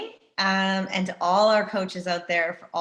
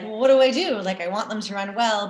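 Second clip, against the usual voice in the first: torn coach; 2 semitones higher, 4 dB louder than usual. Retold or imitated. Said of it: "the coach is like".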